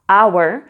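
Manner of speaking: "hour" said as our, no h sound; slow model of "hour" starting on a vowel; English "hour" with silent h. Shown as a demonstration. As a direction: drop the h in "hour". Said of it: "le premier son que tu entends".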